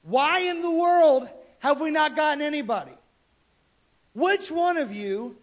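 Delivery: lightly acted royal outrage; exasperated king. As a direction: confront your men as a fed-up king. Retold king confronts his soldiers.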